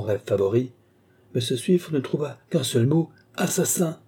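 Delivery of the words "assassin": high-pitched cry without extra volume; contained, high-pitched exclamation; indignant cry. A narrator's reading. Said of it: "s'écria-t-il".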